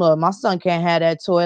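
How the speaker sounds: disapproving parent. Retold or imitated. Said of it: "the argument that you might have with one of your family members".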